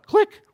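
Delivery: short, high imitated click; spoken radio switch-off noise; walkie-talkie click.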